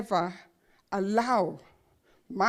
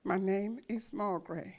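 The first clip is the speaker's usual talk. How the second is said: soft, small and shy, much quieter; a timid, softer reply to a famous author; 4 semitones lower, 9 dB quieter than usual. Retold or imitated. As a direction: answer like a shy girl who barely dares to speak. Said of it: "I answered in a very timid voice".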